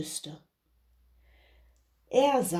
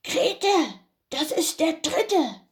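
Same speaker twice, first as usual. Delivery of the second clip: Bauer; 8 semitones higher than usual. Acted. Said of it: "Der Bauer sagte wieder".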